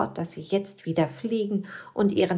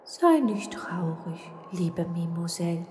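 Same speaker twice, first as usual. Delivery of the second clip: kind ghost. Acted. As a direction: soothe her gently as a good spirit. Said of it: "sagte der gute Geist".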